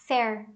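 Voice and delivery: "Fair" with an open E; pronounced FAIR. Shown as a demonstration. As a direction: say "Fair" as FEHR, falling. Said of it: "Qual é a pronúncia?". ("Fair" pronunciado FÉR, com E aberto)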